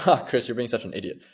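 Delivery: light laugh leading into the words; retold good-humoured self-scolding; amused self-teasing. Man catching himself being a fool, amused self-teasing. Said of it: "I didn't say that in a tone of".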